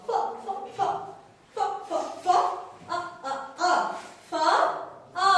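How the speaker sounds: voiceless puffs of ফ, then short beats of আ; teacher's drill of ফ and আ; phonics sounding-out. Shown as a demonstration. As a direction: chant ফ and আ as separate letter sounds. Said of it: "ফি sounds like".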